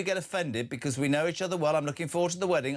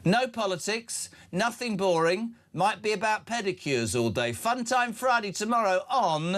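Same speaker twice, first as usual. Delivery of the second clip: bright promo read, higher pitched; upbeat promo; 5 semitones higher than usual. Acted. Host plugging Friday show to listeners, upbeat promo voice. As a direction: sell tomorrow's show like a jingle.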